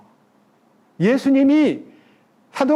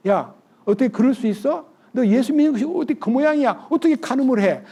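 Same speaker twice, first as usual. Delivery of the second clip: higher-pitched telling-off; mock scolding; 5 semitones higher than usual. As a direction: scold them in indignant questions. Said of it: "꾸짖지 않고요".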